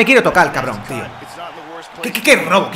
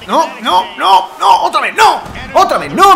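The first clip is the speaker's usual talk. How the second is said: frustrated yell; 5 semitones higher than usual. Real, not acted. Getting knocked down again.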